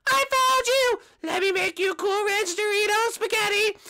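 high, loud, slow gleeful cry; excited shout. Acted. Pursuer pounces on the fleeing boy, giddy and loud. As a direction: pounce on him with mock glee.

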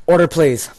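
furious mock judge yelling for order; judge shouting. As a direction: bellow it over a rowdy courtroom.

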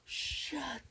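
loud, tearful laugh of disbelief; stunned laughing cry. Real, not acted. Seeing her father's picture, laughing through tears. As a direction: blurt it out half crying.

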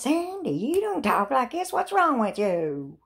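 high, concerned sister voice; imitating sister. Sister on the phone, worried and high-pitched. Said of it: "she goes".

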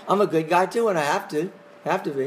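tongue-in-cheek mock boast; sarcastic. Shown as a demonstration. Teacher repeating his comeback to the class, sarcastically. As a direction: toss it off as a wry comeback. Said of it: "bit of sarcasm".

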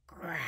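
playful little bear growl. Pretend. Storyteller to children playing bears, growling. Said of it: "Can you growl like a bear?".

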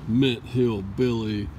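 hammy thief persona, slow; playing a sneaky burglar. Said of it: "I'm gonna pretend like I'm a burglar".

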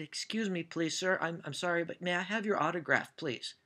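soft, meek, overly polite request; polite Canadian. Retold or imitated. Fan asking actor for an autograph, soft and very polite. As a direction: ask like a timid fan begging a favour. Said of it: "in my most polite Canadian".

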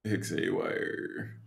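soft and slow. Real, not acted. Soft send-off for character.

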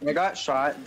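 quick alarmed report; combat callout. Real, not acted. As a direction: report the hit urgently. Callout mid-fight, just hit.

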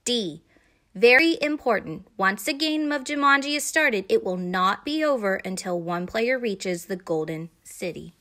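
solemn warning read aloud, key words punched; weighty, emphatic rule reading; capital-letters emphasis. A narrator's reading. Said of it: "this is in capital letters".

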